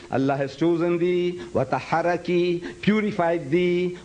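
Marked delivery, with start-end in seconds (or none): 1.5-2.8 1 Quran recitation. Shown as a demonstration. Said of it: "You read".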